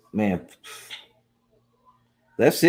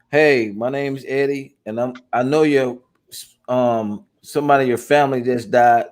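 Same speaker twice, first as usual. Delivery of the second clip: mock the awkward caller; mocking bad script. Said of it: "The script said".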